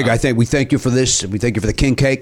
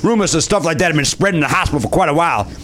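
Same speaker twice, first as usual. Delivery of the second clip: put-on light Cajun accent reading a letter; 4 semitones higher than usual. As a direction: read it like a Louisiana Cajun, mildly put on. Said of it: "you're still doing the accent".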